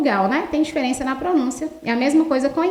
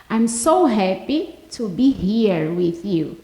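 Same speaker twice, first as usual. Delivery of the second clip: slow model English; 4 semitones lower, much slower than usual. Shown as a demonstration. Teacher models English slowly.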